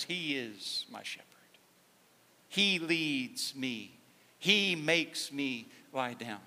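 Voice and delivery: slow, hushed, almost whispered; reverent whisper. Retold or imitated. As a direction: breathe the words out slowly like a prayer. Pastor reads David's words reverently.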